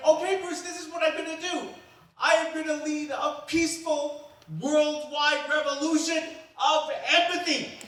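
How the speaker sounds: high, loud, slowing on the last words; grand excited proclamation. Retold or imitated. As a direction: announce it grandly, pitched high, stretching "of empathy". Grand climax of the escalation.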